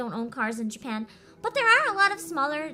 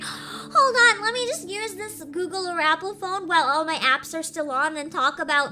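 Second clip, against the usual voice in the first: high, loud mocking voice, pitched up; sarcastic mock quote; 3 semitones higher, 4 dB louder than usual. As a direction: toss the idea back, sneering at it. Mocking reaction to a suggestion.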